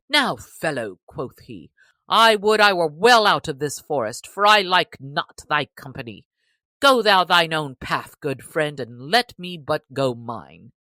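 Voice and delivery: loud, urgent plea to be let go; alarmed sheriff. A narrator's reading. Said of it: "drew rein quickly".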